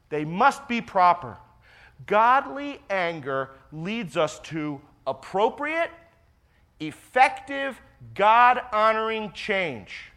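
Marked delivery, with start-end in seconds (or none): 2.1-10.1 slow, drawn out, each phrase weighted; slow and deliberate. Shown as a demonstration. Pastor to congregation, first time through, slow and deliberate. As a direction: lay it out slowly so it sinks in. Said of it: "I'll say that again".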